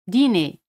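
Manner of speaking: "Dîner" ending on a plain e, no r; French dîner. Shown as a demonstration. Teacher models "Dîner" for Spanish speakers. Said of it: "R no se pronuncia".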